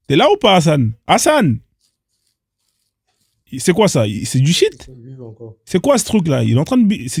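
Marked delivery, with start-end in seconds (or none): 0.1-1.6 higher-pitched call for attention; hailing someone who isn't responding. Real, not acted. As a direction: call out the name to get an answer. Calls again to unresponsive streamer.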